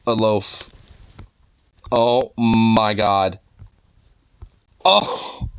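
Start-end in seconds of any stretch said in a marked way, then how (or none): 1.9-3.4 slow, drawn-out "oh my god"; adoring coo. Real, not acted. Seeing a fluffy kitten picture, slow adoring coo. 4.8-5.5 squeal of delight. Real, not acted. Reacting to cute picture.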